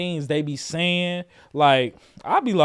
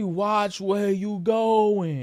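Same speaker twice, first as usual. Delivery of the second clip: slow-motion delivery, every word stretched and dragged out; 4 semitones higher than usual. Retelling a video scene where a line is done in slow-motion delivery. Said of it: "He doing it slow motion".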